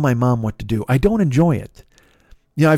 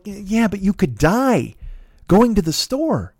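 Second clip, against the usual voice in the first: slow warning; 6 semitones higher, slower than usual. Retold or imitated. Retold warning to his mom.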